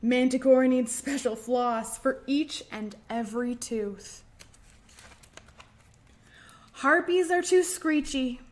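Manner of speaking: lilting storybook read-aloud; sing-song story time voice; reading a rhyme to children. Acted. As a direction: read it like a picture book to little ones.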